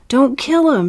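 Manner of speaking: sharp high shout; yell. Acted. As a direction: shout it to stop the killing. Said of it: "she yelled".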